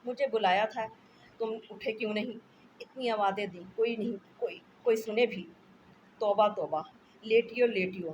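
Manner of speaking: loud, flustered, bustling; a wife rushing in, fussing loudly. Acted. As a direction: rush in fussing over him.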